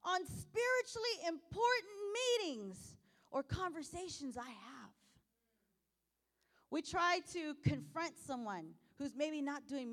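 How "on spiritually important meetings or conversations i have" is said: fervent prayer. Retold or imitated. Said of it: "How many times do we say".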